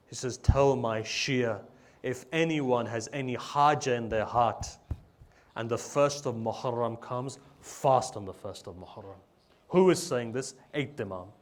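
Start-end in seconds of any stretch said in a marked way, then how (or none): 0.4-9.2 slow, weighted "Tell my Shia", pressed home; emphatic instruction. Retold or imitated. The Imam instructing his Shia to fast, emphatic instruction. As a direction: stress "fast on the first of Muharram" as a firm instruction. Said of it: "How much is he emphasizing this".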